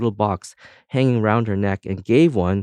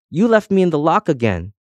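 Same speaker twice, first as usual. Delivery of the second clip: higher, louder complaining yell; 7 semitones higher, 4 dB louder than usual. A narrator's reading. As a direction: shout the grievance up high. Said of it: "the keys kept yelling up".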